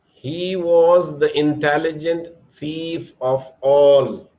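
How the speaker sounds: slow, clear dictation of the sentence. Shown as a demonstration. Teacher dictating slowly to the class. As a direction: read each word out slowly for the class. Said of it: "So now we have to make a superlative sentence".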